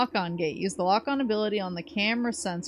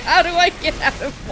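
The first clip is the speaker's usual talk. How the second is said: silly clown; 8 semitones higher, 7 dB louder than usual. Retold or imitated. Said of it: "I was like".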